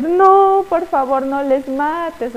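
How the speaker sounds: a mock pleading cry, high on the no, then slow on "no les mates"; a hint of a tearful queen begging her husband; tearful plea. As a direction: beg like a weeping queen, lightly acted. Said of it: "se ponía a llorar".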